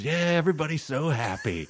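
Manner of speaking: mock everyone's joy with contempt; a hint of a bitter gunman; sneering tweaker.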